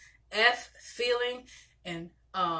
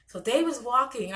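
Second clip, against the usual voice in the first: animated storytelling; 3 semitones higher than usual. Shown as a demonstration. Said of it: "I'm very animated".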